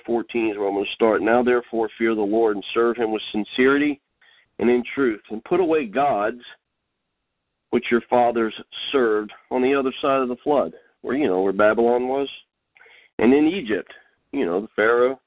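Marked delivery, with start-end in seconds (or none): 1.2-10.7 slightly raised, measured Bible reading; declaimed verse in short phrases; scripture reading. Acted. Reads scripture aloud. 13.2-13.9 slightly raised, measured Bible reading; declaimed verse in short phrases; scripture reading. Acted. Reads scripture aloud.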